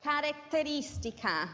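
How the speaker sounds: Italian word in an English teacher's accent. Real, not acted. Teacher dictating Italian to English learners, English-accented Italian. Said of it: "excuse my Italian accent".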